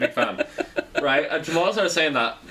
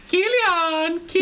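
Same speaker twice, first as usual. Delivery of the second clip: much higher imitation of mum's call; mock calling out; slower than usual. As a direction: echo the mother's call teasingly. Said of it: "He'd go".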